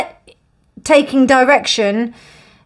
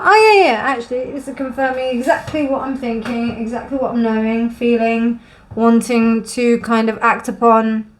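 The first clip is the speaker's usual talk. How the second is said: confirmation-seeker's inner voice. Retold or imitated. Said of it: "just access information to be like".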